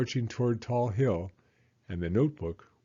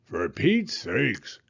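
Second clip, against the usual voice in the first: slow exasperated groan; much slower than usual. Acted. Beaver groaning at the bouncing chicks. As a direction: drag it out, fed up. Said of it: "groaned Beaver".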